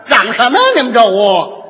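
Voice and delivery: a hint of a busybody barging in; tactless mediator. Lightly voiced busybody barging into a couple's quarrel. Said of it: "哪有这样说的".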